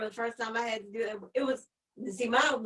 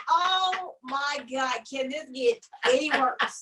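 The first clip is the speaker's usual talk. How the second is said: slow, drawn-out groan of embarrassment; light mock mortification; mock dismay; 3 semitones higher, 4 dB louder, slower than usual. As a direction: drag it out in despair. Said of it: "you feel like".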